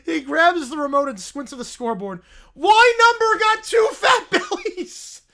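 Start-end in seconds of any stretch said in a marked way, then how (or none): 2.5-5.2 high, loud indignant bear shout; broken-English bear. Acted. Little Brown Bear protesting at the screen, high and loud. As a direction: protest like an upset toddler.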